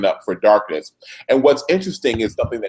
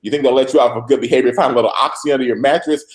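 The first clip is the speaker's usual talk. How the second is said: mock tirade; faster than usual. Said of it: "Olivia is on a complete tirade".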